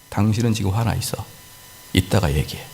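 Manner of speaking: low, calm reply to an angry spouse; 차분하게. Acted. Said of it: "차분하게". (낮고 차분한 목소리로)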